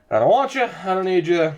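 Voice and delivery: mock movie rejection. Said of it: "That's a movie reference".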